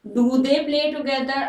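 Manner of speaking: very slow, stress on "they"; slow teacher's question; slow dictation question. Shown as a demonstration. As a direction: read it out slowly again. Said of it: "subjective pronoun में convert".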